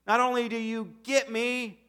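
high and bright with delight; thrilled high praise; excited. Retold or imitated. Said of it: "I think he got excited".

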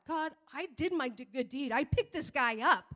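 lightly indignant mock protest; arguing with God. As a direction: plead your case in mild exasperation. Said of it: "I'm arguing in my head with God".

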